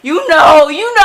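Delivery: high, loud mocking voice; mocking quote. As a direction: mimic her dreamy dithering. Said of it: "she's just like".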